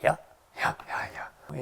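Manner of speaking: "yeah" cut very short and mostly voiceless; breath-like short "yeah", repeated; short Maine yes. Shown as a demonstration. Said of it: "There's a short version of yes".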